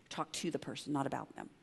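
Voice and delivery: soft repeat. Shown as a demonstration. Pastor quietly repeating the church saying to himself. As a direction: murmur the slogan as a reminder. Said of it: "Check the preposition".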